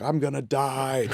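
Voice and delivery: drawn-out, hammed-up fear, kept quiet; imitated panicking wife. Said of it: "she was like".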